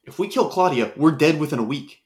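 very soft, rushed panic; hushed. Acted. Panicked hushed talk in crowd.

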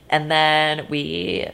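creaky drawn-out voice; vocal fry. Real, not acted. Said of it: "sorry, the vocal fry".

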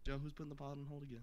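rapid-fire mocking imitation; fast mocking repeat. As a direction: rattle it off quickly, mocking him. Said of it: "All I'm hearing is".

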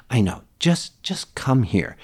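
slow, gentle coaxing; patient dad, re-enacted calmly; retold soothing dad. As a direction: coax an upset child over, slowly. Dad soothing his upset daughter.

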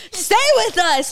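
loud, high, drawn-out imitation of a nurse; retold emergency yell, stretched out; urgent shout. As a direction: holler it to rouse someone fainting. Imitating nurses slapping her awake.

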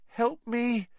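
very high, thin plea; frightened moan. A narrator's reading. Neville begging Hermione for help, moaning in fear. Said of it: "he moaned".

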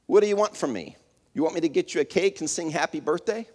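a nasty friend's snappy comeback. Retold or imitated. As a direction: throw it back at her, mean and mocking. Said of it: "in a nasty tone".

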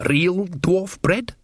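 slow, high, amazed; disbelieving delight. Acted. Dwarf amazed at the bread offer, slow delight. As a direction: savour each word in wonder.

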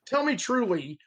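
lightly put-on English accent; imitation English accent. Student asking an English coworker to judge it, imitated English accent. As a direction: try out an amateur English accent. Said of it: "I would always try to imitate them".

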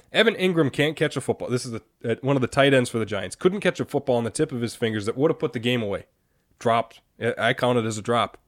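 sober, exasperated listing; serious tone. Real, not acted. Host listing what irks them about the game, serious tone. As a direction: lay out the failing soberly. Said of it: "I say these in a serious tone".

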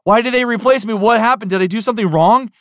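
high, loud, anxious questions, quickening at the end; worried. Retold or imitated. Replaced actor asking himself what he did wrong, anxious and high. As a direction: plead to know what went wrong.

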